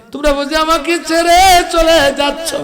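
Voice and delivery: high-pitched lamenting call; plaintive pleading. Acted. Dead man to family leaving his grave, plaintive lament.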